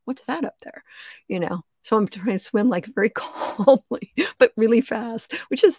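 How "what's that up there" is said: shark voice. Pretend. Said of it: "sharks to suddenly go like".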